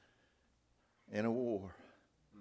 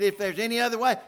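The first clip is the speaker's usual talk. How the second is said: pleading cry; 10 semitones higher, 9 dB louder, faster than usual. Acted. Jesus pleading to Father.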